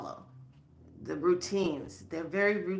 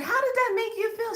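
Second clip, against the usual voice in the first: excited; 5 dB louder than usual. Retold or imitated. Eager question retold.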